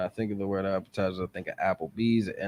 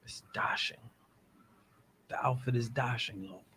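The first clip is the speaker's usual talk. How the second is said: mock British; 3 semitones higher, 6 dB quieter than usual. Shown as a demonstration. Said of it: "If we were British people".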